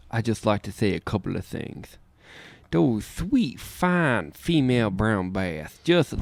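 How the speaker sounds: smooth ladies' man crooning; a hint of a smooth seducer. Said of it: "ladies' man impression".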